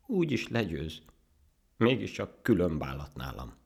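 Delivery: high start, sinking, plaintive; tearful. Acted. Ant conceding the monkey is better, tearful. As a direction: give up with a whimper. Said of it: "mondta ekkor sírósan a hangya".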